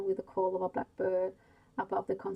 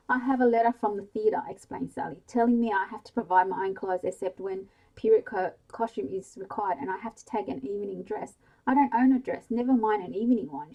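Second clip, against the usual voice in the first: louder, complaining wail; 8 dB louder than usual. Acted. Sally complaining to mother about needing a dress, wailing. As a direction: moan it to mum with mock despair. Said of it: "she wailed".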